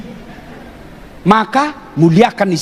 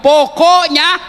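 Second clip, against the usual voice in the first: stubborn wife; 9 semitones higher, 4 dB louder, much slower than usual. Retold or imitated. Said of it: "Apalagi kalau dia sudah bilang".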